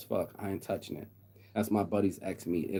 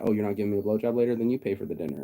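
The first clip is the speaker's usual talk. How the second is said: entitled guy; 3 dB louder, faster than usual. Retold or imitated. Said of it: "guys are talking like that".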